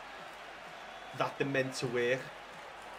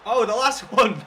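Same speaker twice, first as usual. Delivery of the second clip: laughing; 7 semitones higher, 12 dB louder than usual. Real, not acted. Laughing at his mistake.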